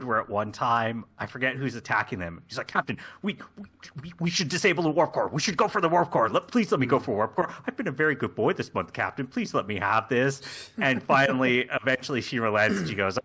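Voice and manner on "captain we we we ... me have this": fast, stammering plea; eager begging. Acted. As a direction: plead with the captain in a hurried rush. Shaxs begging the captain.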